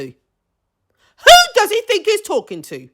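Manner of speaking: high, slow, stretched-out disbelief; slow indignant repeat. Real, not acted. Repeating it to viewers, slow and high with indignation. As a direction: drag each word out in disbelief.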